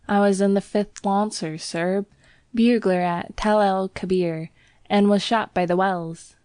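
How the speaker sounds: a proud ex-soldier in Cockney; Cockney bell boy. Acted. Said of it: "Thomas's Cockney dialect".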